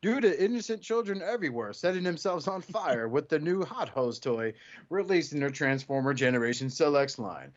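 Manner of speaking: lightly voiced news-report read; mock news anchor. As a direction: read it like a breaking news bulletin.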